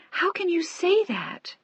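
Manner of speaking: high, slow horrified question. A narrator's reading. Young wife horrified as her dying husband blames himself. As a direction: voice her shock at his words. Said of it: "She looked at him in horror".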